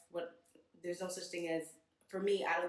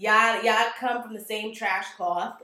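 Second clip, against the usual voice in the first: slow, louder, laughing contempt; scornful; 3 semitones higher, 9 dB louder, slower than usual. Real, not acted. Dismissing white Latinos as the same, slow and louder. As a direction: spit it out slowly with a laugh.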